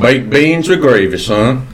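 lightly voiced old Southern gentleman, gruff; a hint of a cranky Southern colonel scolding; mild drawling Southern old-timer.

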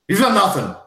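loud, high accusation; accusing shout. Acted. Hamish accusing the townsfolk, loud and high. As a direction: hurl it at them.

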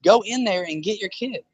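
incredulous parent. Retold or imitated. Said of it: "be like".

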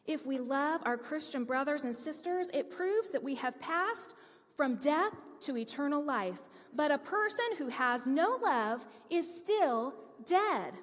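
measured, emphatic scripture reading, slowing on the last line. Acted. Pastor reading verses to the congregation, emphatic and measured. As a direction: lean into each phrase like a preacher reading the Word. Reads scripture aloud in sermon.

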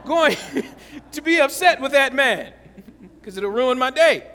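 amused, laughing it off. Real, not acted. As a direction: chuckle while you say it. Laughs while forgiving driver.

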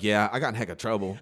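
understated, matter-of-fact admission; calm. Retold or imitated. Friend admitting he got in trouble, calm. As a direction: play it down, no excitement. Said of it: "he was very calm".

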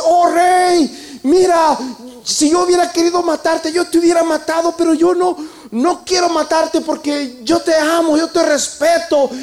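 high, loud and pleading, slowing at the end; David calls up to Saul and swears he means him no harm; súplica ferviente al rey; earnest plea to the king. Acted.

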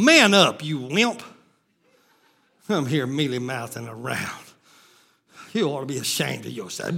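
very low, soft aside; hushed, low-pitched pep talk; subdued self-rebuke. Real, not acted. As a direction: drop right down as if scolding yourself. Muttered self-rebuke after the shouting.

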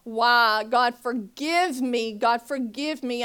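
loud, slow, pleading prayer to God; retold crying prayer. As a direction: beg God through tears. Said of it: "crying my eyes out".

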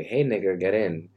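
relaxed offhand call to a passenger; offhand greeting through the car window; casual call from a car. Pretend. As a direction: toss it out lazily from the driver's seat. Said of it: "And I wanna say".

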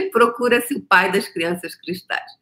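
slow, laughing mock announcement; mock wanted ad. To her viewers, a laughing mock wanted ad. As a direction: read it like a joking wanted notice.

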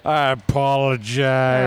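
slow, drawn-out put-on voice; mock solemn apology. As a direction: say it slowly like a pompous echo.

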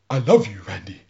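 put-on stereotyped Native American accent in a retelling; lightly acted Native American accent; mock Native American accent. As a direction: imitate a film-cliché Native American accent. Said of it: "stereotypical, uh, Native American accent".

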